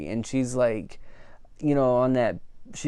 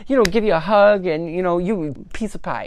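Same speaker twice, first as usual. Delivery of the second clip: sweet cheerleading Barbies; 5 semitones higher than usual. Retold or imitated. Barbies encouraging Margot, quoted.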